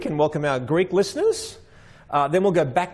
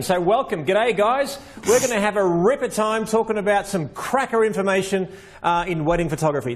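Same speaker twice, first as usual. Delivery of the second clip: broad Aussie slang greeting; Australian accent; 4 semitones higher than usual. Shown as a demonstration. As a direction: lay on the Australian a little. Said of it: "I'm now gonna speak Australian".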